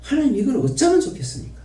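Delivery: lamenting appeal. Real, not acted.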